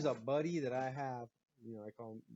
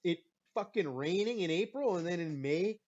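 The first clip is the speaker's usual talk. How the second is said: heated retort; 4 semitones higher, 5 dB louder than usual. Retold or imitated. I'm like.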